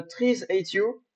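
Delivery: slow, careful mock English accent; slow English accent, hammed up. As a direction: say the title like a proud Englishman. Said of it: "avec mon magnifique accent anglais".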